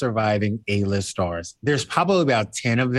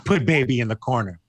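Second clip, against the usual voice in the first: sassy movie line. Retold or imitated. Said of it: "I taught him a lesson".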